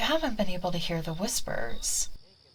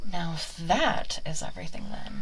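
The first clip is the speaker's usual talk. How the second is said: whisper. Acted. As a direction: hush it close to the ear. ASMR witch drops to whisper.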